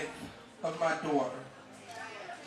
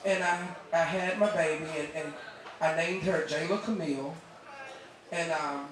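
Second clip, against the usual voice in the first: soft, halting, choked by feeling; real emotion interrupting the words; getting emotional; 3 semitones lower, 5 dB quieter than usual. Real, not acted. Mother introducing her daughter to the audience, getting emotional. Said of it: "I'm getting emotional".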